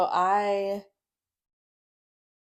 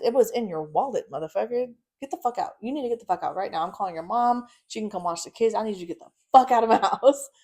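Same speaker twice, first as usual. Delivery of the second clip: angry cussing out; 3 semitones higher, 3 dB louder than usual. Retold or imitated. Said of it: "cussing him out".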